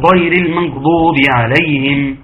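recited المغضوب with the غ not allowed to flow; wrong ghayn. Shown as a demonstration. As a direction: chant it but cut the غ of المغضوب short. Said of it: "خطأ، ما ينفعش". (ترتيل خاطئ دون رخاوة الغين في «المغضوب»)

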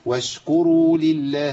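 واشكروا with a brief gentle ش; correct light shin. Shown as a demonstration. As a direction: let the ش slip out lightly. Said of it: "أيوة كده".

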